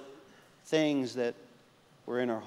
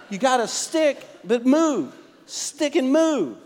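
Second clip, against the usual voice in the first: laughing slogan; 9 semitones higher, 5 dB louder, slower than usual. Shown as a demonstration. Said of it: "I named it the stick and move principle".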